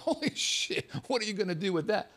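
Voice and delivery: breathless high gasp of disbelief, then quick; stunned. Retold or imitated. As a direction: gape at the giant joint. Sees enormous spliff.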